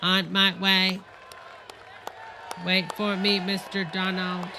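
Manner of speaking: stiff, even mock robot; hint of a robot. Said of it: "here comes Miss Robot".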